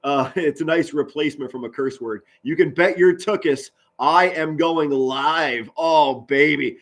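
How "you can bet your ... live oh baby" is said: hyped promise. Real, not acted. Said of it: "scream to the top of my lungs".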